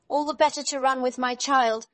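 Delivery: high, loud, emphatic reply; wolf as grandmother. A narrator's reading. Disguised wolf answers girl, high emphatic reply.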